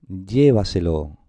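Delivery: llévaselo said slowly as LLE-va-se-lo; stress on first syllable. Shown as a demonstration. Teacher shows the tonic syllable, llévaselo stressed as LLE-va-se-lo. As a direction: punch the LLE of llévaselo, drawn out. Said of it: "esta es la sílaba tónica".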